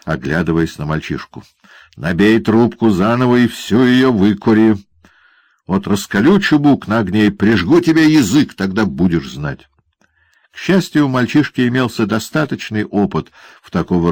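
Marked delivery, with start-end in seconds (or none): 2.0-9.7 raised, higher threatening voice; malicious dwarf bullying; menacing dwarf. Acted. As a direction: lord it over the boy with nasty glee. Quilp threatens the boy.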